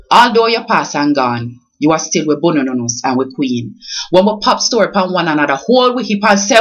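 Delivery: rhythmic Jamaican patois poem, read aloud with feeling; poem recital. Acted. Vlogger reading her own tribute poem to Miss Lou, recited with feeling. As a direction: recite it as a heartfelt birthday tribute. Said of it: "I wrote it and I'm going to read it".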